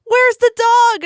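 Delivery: very high, loud, drawn-out wail; slow, high mock-frantic shout; hammed-up demand. Imitating a friend worried only about the dog, hammed-up demand.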